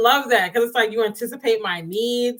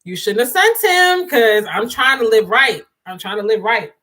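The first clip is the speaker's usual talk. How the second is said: mock plea to God. Joking prayer to God about a tempting man, mock plea. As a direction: playfully beg God not to tempt you. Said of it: "you gonna be like, "God".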